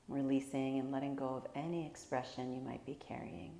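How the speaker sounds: calm, unhurried meditation guide with long pauses; guided meditation. Real, not acted. Teacher guiding listeners through a body scan, calm guided meditation. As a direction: gently lead them through each breath, leaving space.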